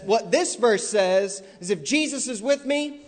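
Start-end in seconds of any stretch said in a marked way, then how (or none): 1.7-3.0 mocking quote. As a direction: ham up his claim with scorn. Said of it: "he says".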